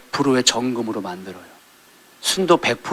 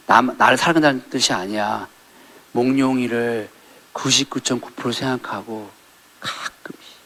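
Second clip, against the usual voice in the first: coaxing plea; 2 semitones lower, 6 dB quieter than usual. Retold or imitated. Byeon Hak-do coaxing softly.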